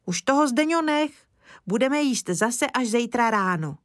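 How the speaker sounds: put-on high, eager child's voice; little boy. Kája explaining to Mr Lesní, high childlike voice. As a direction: speak up like an earnest small boy.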